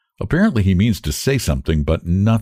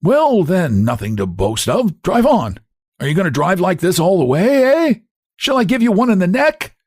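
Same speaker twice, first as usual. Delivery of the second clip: higher, rough jeering voice; a high jeering hunchback; hunchback, mocking; 10 semitones higher than usual. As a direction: taunt the driver.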